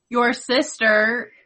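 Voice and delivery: drawn out slowly in disbelief; slow, stunned. Retold or imitated. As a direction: spell out the shocking news slowly. Retelling brother's stunned report.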